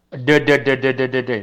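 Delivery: D repeated as a tapped sound; drilling the D. Shown as a demonstration. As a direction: tap out the D again and again. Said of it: "Entonces la D es".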